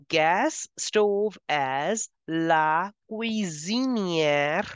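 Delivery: "la cuisinière" said slowly, with the s voiced as a z; slow model pronunciation, "cuisinière" with a z sound; careful French demo. Shown as a demonstration. Teacher modelling the word for learners, slow and careful. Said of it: "please change the sound to Z".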